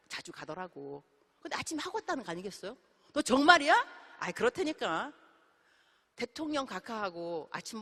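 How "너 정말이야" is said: loud, higher, slow astonished question; slow loud really; stunned disbelief. Acted. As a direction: drag it out in awe. Friend stunned by the story.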